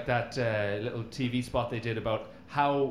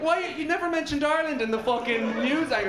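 hammed-up outrage at being left out; mock outrage; 11 semitones higher than usual. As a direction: squeal it out, offended on Ireland's behalf. Irish indignation at the video.

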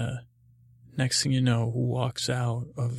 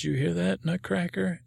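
excited call; 6 semitones higher than usual. Acted. Calling out to the nutcracker.

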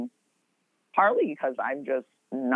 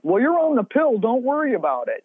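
careless inner voice; 7 semitones higher than usual. Pretend. The Stone Age mind shrugging off consequences, mock-breezy. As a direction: toss it off like nothing matters.

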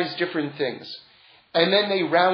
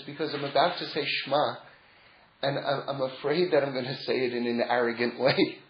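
soft deathbed confession; 5 semitones lower, 8 dB quieter than usual. Retold or imitated. Dying tzaddik answers disciples.

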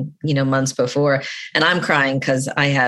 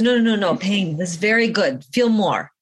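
higher-pitched imitation of a gentle monk; gentle Tibetan monk; 4 semitones higher than usual. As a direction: retell the monk's insistent encouragement. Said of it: "gentle Tibetan Buddhist way".

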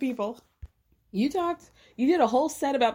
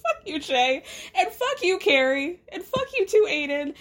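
pitched-up exasperated calls of fuck you; exasperated scolding; 6 semitones higher than usual. Real, not acted. Podcaster scolding TV characters, exasperated outburst. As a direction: tell each bad friend off in turn.

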